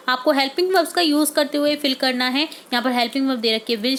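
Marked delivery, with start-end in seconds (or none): none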